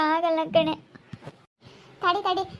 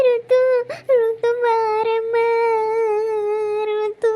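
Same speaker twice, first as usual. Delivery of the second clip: put-on raised, high call to the child; 6 semitones higher, 4 dB louder, much slower than usual. Mother calling her daughter Ritu to come. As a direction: call the girl to come, drawn out slowly. Calling the little girl over.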